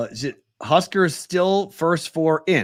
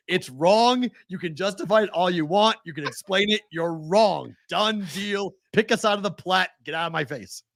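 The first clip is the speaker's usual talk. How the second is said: higher-pitched, emphatic dismissal of a fan; imagined telling-off; 4 semitones higher than usual. Retold or imitated. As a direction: lay down the verdict, point by point. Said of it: "That's exactly how I would be in my head".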